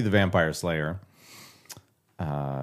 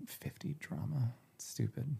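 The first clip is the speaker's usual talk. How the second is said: annoyed mutter; 3 semitones higher, 15 dB quieter than usual. Real, not acted. Muttering at Alexa.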